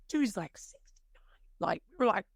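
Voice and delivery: awed whisper. Real, not acted. Awed retelling of stunt.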